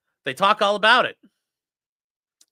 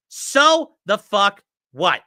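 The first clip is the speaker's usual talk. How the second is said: slow dragged-out; 3 semitones higher, 4 dB louder, much slower than usual. Shown as a demonstration. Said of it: "repeats phrase slowly".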